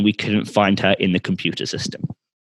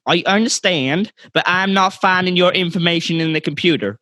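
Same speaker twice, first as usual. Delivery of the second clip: slightly exasperated, higher-pitched Southern American voice; mildly irritated; 6 semitones higher than usual. Acted. Clerk irritated with a childish customer, higher-pitched. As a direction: patience wearing thin, acted. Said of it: "getting irritated at her childish behaviour".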